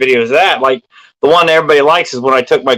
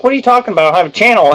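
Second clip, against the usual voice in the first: surprised; 6 semitones higher, much faster than usual. Retold or imitated. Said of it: "I'm like".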